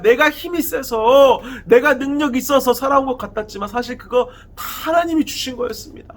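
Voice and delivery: impassioned acted last prayer, rising in pitch; desperate plea. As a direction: plead with God in earnest, leaning on each petition. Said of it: "이 삼손의 처절한 간구를".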